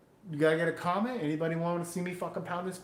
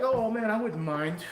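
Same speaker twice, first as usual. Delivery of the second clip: mock customer; 6 semitones higher than usual. Mocking a customer's polite line.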